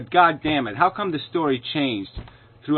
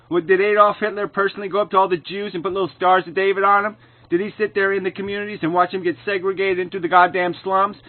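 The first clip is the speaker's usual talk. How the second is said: heated; 5 semitones higher than usual. Real, not acted. Heated rant about blame.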